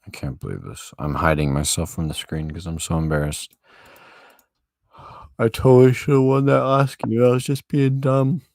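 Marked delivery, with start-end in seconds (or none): 5.4-8.4 loud, high frustrated rant; frustrated outburst. Real, not acted. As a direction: yell it at yourself. Self-scolding outburst at chess loss.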